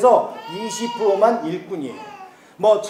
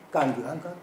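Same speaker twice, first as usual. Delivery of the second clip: clipped Chungcheong dialect, soft and short; 5 semitones lower, 8 dB quieter than usual. Shown as a demonstration. Preacher shows the congregation Chungcheong dialect. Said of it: "충청도 말로는 이렇게 길게 안 해요".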